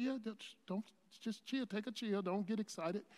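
soft, hushed calming; softly telling the cashier not to fuss; quiet reassurance. Retold or imitated. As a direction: settle her down under your breath.

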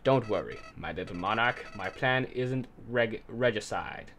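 lightly voiced cartoon villain; gloating, scheming villain; evil mastermind voice. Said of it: "I'm just gonna do an evil mastermind voice".

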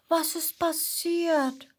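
high, slow and gentle, like a kind little dino; slow, high, loving question to a crying friend; tender question. Acted. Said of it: "fragt Mats liebevoll".

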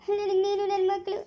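halting, sobbing apology; tearful remorse. Acted. Husband admitting his fault to Saraswati, crying. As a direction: confess it haltingly through tears. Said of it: "ನೀನ್ ಅಳ್ಬೇಡ ನಗು".

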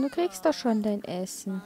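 put-on calm the child down gently; quiet, patient reassurance; soothing. Soothing the hungry Sim.

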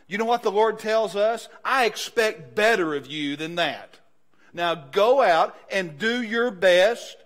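slow, loud preacher's charge; preaching at full force. Acted. Pastor voicing the Lord to believers, loud and slow. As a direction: drive it home to the church.

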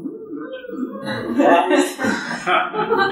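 high burst of real laughter; bright real laugh. Real, not acted. Laughing at the memory.

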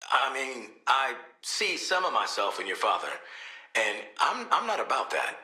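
soft, hesitant admission; subdued confession. Acted. Father confiding doubts to Shark, subdued and hesitant. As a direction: open up quietly, with halting pauses.

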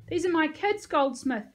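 high, loud, elated announcement; shouted. A narrator's reading. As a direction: call it out proudly to a colleague. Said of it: "she shouted to the medic".

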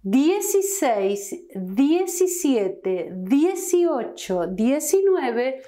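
dieciséis to diecinueve spoken slowly; slow Spanish numbers. Shown as a demonstration. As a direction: model the dieci start. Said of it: "And then for the rest".

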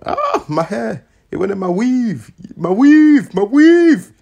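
high panicked shriek; shrieking in dismay. Real, not acted. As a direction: cry out about the hair, rising to a shriek. Hair caught, crying out.

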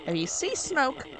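bossy cook with a light Southern twang; somewhat Southern accent. Acted. Cook instructing Fleabag about smoke, somewhat Southern accent. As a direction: give kitchen orders in a mild Southern accent. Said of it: "this somewhat southern accent".

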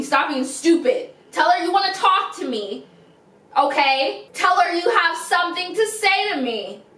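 put-on pushy, coaxing girlfriend giving orders; bossy girlfriend on the phone to her man. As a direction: talk her into it sweetly but firmly. Acted phone call skit.

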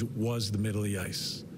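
ordinary talk

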